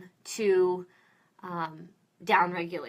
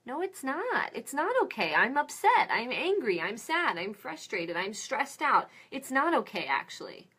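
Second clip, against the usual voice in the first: higher, indignant pushback; upset adult objecting; 4 semitones higher than usual. Retold or imitated. Upset adult rejecting an empty "It's okay", indignant. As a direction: protest being brushed off. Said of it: "when you say that to an adult who's upset".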